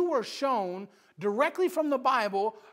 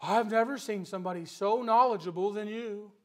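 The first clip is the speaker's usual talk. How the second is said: buttering up. Retold or imitated. Flatterer praising a preacher to use him, mock buttering up. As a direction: imitate someone sweet-talking a preacher. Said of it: "talking nice to you and buttering you up".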